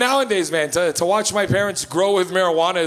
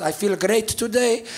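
slow, drawn-out imitation of Mom; blissed-out mother; 2 semitones higher, slower than usual. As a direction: sound serenely pleased on the phone. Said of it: "She goes".

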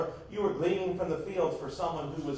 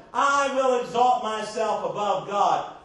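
loud, slow, mock-grand declaration; proud boast; 3 semitones higher, 6 dB louder, slower than usual. Preacher voices Satan challenging God, proud boast. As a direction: declaim it slowly like an arrogant boast.

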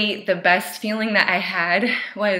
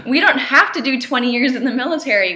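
said through a loud laugh; 5 semitones higher, 6 dB louder than usual. Real, not acted. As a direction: laugh through rising emotion. Laughing while starting to cry.

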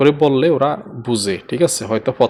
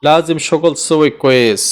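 slow teaching. Shown as a demonstration. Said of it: "ঠিকভাবে কাজ করতে হবে".

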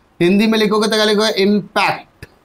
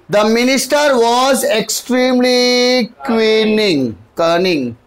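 slow dictation; 2 semitones higher, much slower than usual. Shown as a demonstration. Teacher dictates the example sentence.

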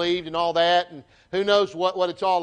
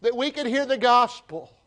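pleading cry; 4 semitones higher than usual. Acted. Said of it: "they're crying out for".

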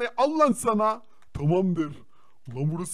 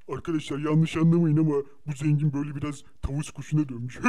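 laughing aside; 5 semitones lower, faster than usual. Real, not acted. Mocks friend's outfit to viewers.

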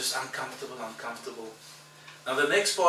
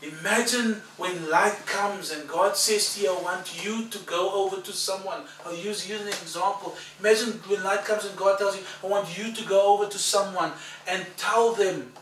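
full preaching; 7 semitones higher, 7 dB louder than usual. Acted. Preacher urging the congregation, full-force preaching.

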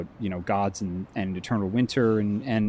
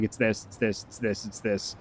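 hushed, insistent repetition; whisper-blurt the answer you can't hold back; 5 dB quieter than usual. Retold or imitated. Streamer unable to hold the riddle answer, hushed blurt. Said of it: "I was just like".

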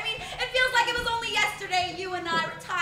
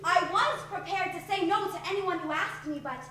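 hushed and dreamy; 8 dB quieter than usual. Acted. Sarah charmed, hushed reply.

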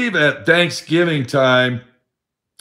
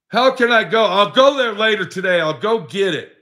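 higher, fast whining friend's voice; complaining friend; 7 semitones higher than usual. Retold or imitated. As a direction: play the friend with the bad back, higher and rushed. Friend's reply retold on phone.

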